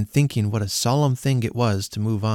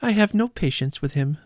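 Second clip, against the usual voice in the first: impatient niece; 5 semitones higher than usual. Acted. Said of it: "observed Scrooge's niece".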